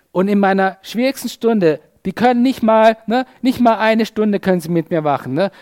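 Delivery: acted indignant complaint, pushed up in pitch; hammed-up hurt disbelief; Jesus, mock exasperation. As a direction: grumble loudly about useless friends. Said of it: "Könnt ihr euch Jesus vorstellen?".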